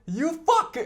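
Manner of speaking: put-on Paddy's accent. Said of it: "il dit tout le temps".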